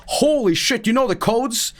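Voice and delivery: high, awed gasp of a question; amazed kids. Retold or imitated. Kids amazed he knows the codes, high and awed. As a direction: kids gawking at him in awe. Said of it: "And they're like".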